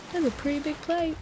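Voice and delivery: light Southern waitress line; southern accent. Retold or imitated. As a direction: keep the waitress voice going. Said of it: "in a southern accent".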